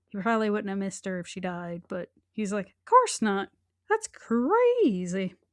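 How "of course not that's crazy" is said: very slow, high, swooping, sing-song tone. Imitating the dentist denying the accusations, imitating a high-pitched voice. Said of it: "Did his voice get high-pitched like that".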